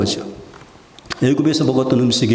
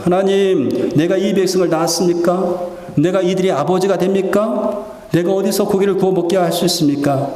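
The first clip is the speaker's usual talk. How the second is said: higher-pitched, pleading prayer in mild despair; despairing plea; 3 semitones higher than usual. Acted. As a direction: act out Moses protesting to God at the end of his rope. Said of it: "심각한 절망감이었습니다". (절망 섞인 높은 톤의 하소연)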